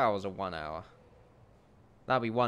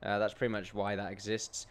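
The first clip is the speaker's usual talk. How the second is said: ordinary talk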